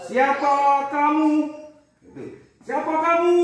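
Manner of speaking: called out loud. Shown as a demonstration. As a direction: call it out to the group. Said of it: "Seperti itu ya". (seruan lantang)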